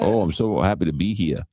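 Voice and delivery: imitated New York lifeguard; thick New York accent. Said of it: "such a thick New York accent".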